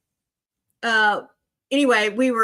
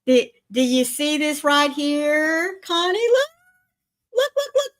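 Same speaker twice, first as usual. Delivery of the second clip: excited calling; 6 semitones higher than usual. Real, not acted. Grandma calling grandson to camera.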